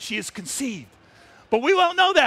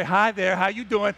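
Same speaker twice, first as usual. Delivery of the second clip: lioness whispering; 4 semitones lower than usual. Retold or imitated. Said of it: "she's gonna Say".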